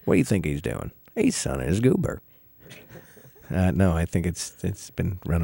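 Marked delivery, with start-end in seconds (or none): 0.1-2.2 bored bus driver. Retold or imitated. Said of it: "Talks like this".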